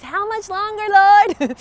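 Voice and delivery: high whine bursting loud on "Lord"; impatient cry. Acted. Someone like her asking the Lord, high exasperated cry.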